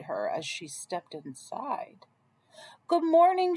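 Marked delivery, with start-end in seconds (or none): 2.9-3.6 higher, louder greeting called into the cottage. Acted. Red entering the cottage, calling out a higher, louder greeting. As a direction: call out to an empty room. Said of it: "she called".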